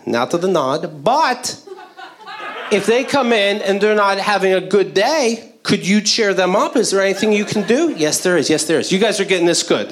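earnest cheesy training talk; lightly voiced corporate trainer. Trainer teaching new hires coffee service, lightly cheesy. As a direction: keep it upbeat and corporate. Plays Applebee's trainer throughout.

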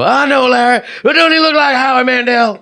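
high, loud, hammed-up Queens chatter; mock Queens accent. Host voicing people gossiping about Larry, mock Queens accent. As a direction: play excitable neighbours from Queens. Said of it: "They call me, you know".

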